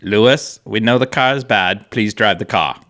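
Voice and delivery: lightly put-on Austrian accent, measured and deliberate; bad Toto imitation. Podcast host quoting team boss to his driver, bad Austrian-accented imitation. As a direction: plead in a hint of an Austrian accent. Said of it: "That was my bad Toto imitation".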